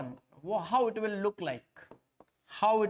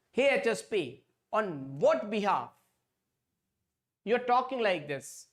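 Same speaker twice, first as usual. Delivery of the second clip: a hint of a sassy assistant, a bit higher; Champa's voice, lightly pitched up; 3 semitones higher than usual. Assistant Champa questions the teacher, lightly higher mock voice. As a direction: tease the teacher in a slightly higher voice. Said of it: "she talks like this".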